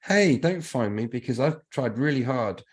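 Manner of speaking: light, hammed-up appeal to be let off; imagined plea to the taxman; mock pleading. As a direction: plead your case half-playfully, pitch jumping up on the opening. Imagined plea to the tax office.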